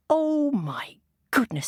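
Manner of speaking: high, slow, drawn-out dismay; dismayed rabbit. Acted. Missus Rabbit seeing the mess, high dismay. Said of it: "said Missus Rabbit".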